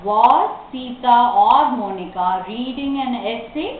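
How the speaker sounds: slow question rising at the end; model reading. Shown as a demonstration. Teacher asks the class an example question, slow reading. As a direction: read out each word carefully.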